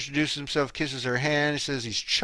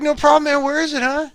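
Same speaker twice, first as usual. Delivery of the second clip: acted casual reply; 10 semitones higher than usual. Acts out the film's reply.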